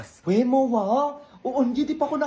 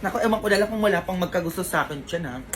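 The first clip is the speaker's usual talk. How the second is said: put-on rich old woman; 6 semitones lower than usual. Rich old Mars brags to the mother in a low voice.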